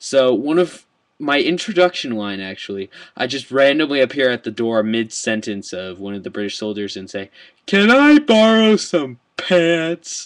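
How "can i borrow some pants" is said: very high, very slow silly voice. Retelling his introduction line, appearing at a door mid-sentence of a soldier, put-on funny voice. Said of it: "in that voice".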